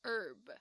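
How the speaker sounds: herb with a silent H, "erb"; 美式发音herb，H不发音; American pronunciation. Shown as a demonstration. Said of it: "通常呢，就都会是念".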